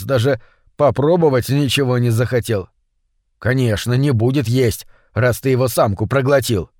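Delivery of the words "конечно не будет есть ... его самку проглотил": mild, understated grumble; grumbling. Acted. Митя blames his friend for the fish not eating, grumbling. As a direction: grumble the reproach under restraint. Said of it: "проворчал Митя".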